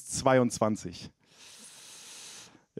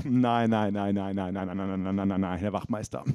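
soothing denial to police; 7 semitones lower, 4 dB quieter than usual. Pretend. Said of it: "bin so".

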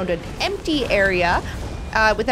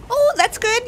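usual speaking voice

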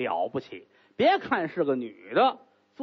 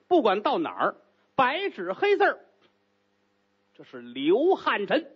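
veiled threat; 2 semitones higher than usual. Acted. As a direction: lean on every word, menacing. Jin Fengqing threatens firmly.

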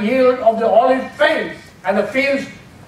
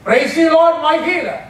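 a touch of praise, pitched higher, slowing on healer; worshipful praise; 6 semitones higher, 3 dB louder than usual. Shown as a demonstration. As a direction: honor God as healer, lightly. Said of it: "that is worship".

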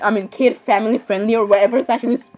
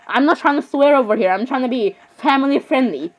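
mouth full. Real, not acted. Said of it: "talking with your mouth full".

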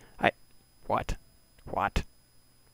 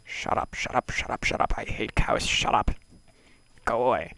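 louder, fed-up shouts at the cows; annoyed yelling; 4 semitones higher, 7 dB louder than usual. Real, not acted. Player shouting at mooing cows, loud and fed up. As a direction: yell them off, sick of the noise.

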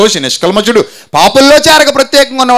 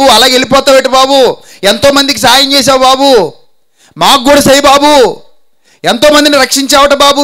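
higher, begging cry to Jesus; pleading Canaanite woman; 6 semitones higher than usual. Acted. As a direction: plead again and again, calling baabu. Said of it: "కేకల మీద కేకలు". (అమ్మ యేసును వేడుకుంటూ అరిచే గొంతు)

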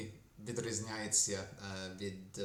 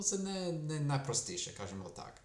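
ordinary talk

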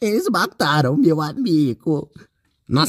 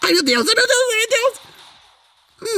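high, drawn-out ai meu Deus wail; panicked squeal; slower than usual. Real, not acted. Gamer caught by an enemy, squealing and drawn out. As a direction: squeal it out slow in mock panic.

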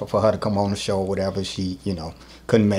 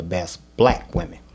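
slight pause, then a firm "black"; stress on BLACK; 4 semitones lower than usual. Retold or imitated. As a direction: set "black" apart before "women". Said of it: "put the emphasis on that".

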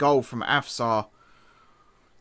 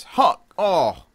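excited shout; 6 semitones higher, 6 dB louder than usual. Real, not acted. Goal scored in the game.

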